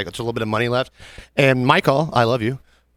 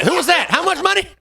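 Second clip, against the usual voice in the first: deafened friend. Retold or imitated. Imitating half-deaf Danny after gunshot.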